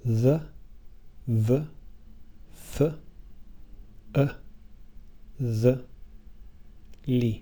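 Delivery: isolated unstressed syllables "The, v, f, e, the, li" with reduced vowels; weak vowels. Shown as a demonstration. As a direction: say each of "The, v, f, e, the, li" alone, short and weak. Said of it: "they have weak vowels".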